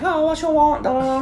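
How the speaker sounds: high, mock Asian accent; imitating a restaurant worker's accent; bad Asian accent. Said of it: "I'm not trying to be racist".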